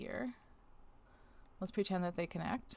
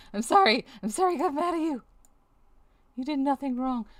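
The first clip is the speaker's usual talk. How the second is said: mock apology; 7 semitones higher, 11 dB louder than usual. Apologizing to the software tool.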